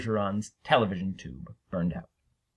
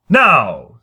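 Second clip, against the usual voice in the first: loud call; 9 dB louder than usual. Acted. Harrison takes ballerina's hand.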